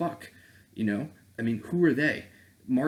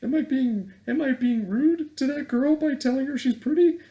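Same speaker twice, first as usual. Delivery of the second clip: mocking whiny voice; 4 dB louder than usual. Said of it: "I'm like".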